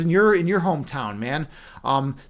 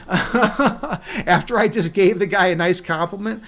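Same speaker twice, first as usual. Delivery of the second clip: laughing; 2 semitones higher, slower than usual. Real, not acted. Laughing at his story.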